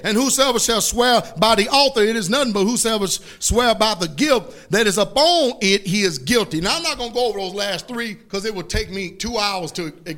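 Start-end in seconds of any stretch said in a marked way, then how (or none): 0.0-6.6 forceful preacher's scripture reading. Retold or imitated. Preacher reading woes on blind guides, stern declamation. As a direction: declaim it phrase by phrase, each ending falling.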